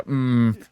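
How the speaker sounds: a duller imitation moan, kept down. Shown as a demonstration. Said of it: "and less of, like".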